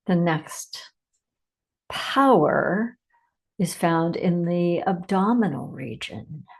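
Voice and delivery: measured meditation delivery with long pauses; unhurried meditation leader, phrase by phrase; guided meditation. Acted. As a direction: guide listeners inward, leaving space after each phrase.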